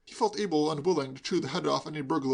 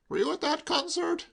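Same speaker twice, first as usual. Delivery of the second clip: stern; 14 semitones higher than usual. A narrator's reading. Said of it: "he said sternly".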